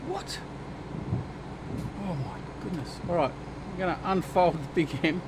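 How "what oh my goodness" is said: mock shock. Real, not acted. Mock astonishment at friend.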